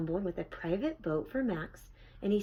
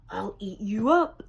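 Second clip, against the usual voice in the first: put-on a boy's loud growling threat, a touch louder; Max's wild threat; 6 dB louder than usual. A narrator's reading. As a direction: snarl it playfully at mother. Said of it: "and Max said".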